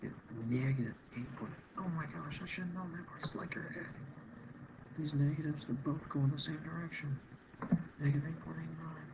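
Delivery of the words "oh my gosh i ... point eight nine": higher, amazed at own mistake; sudden realization, voice jumps up; surprised. Real, not acted.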